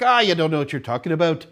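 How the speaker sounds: lightly voiced Irish friend; imitated Irish accent. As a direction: quote her with a hint of an Irish accent. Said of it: "With this accent".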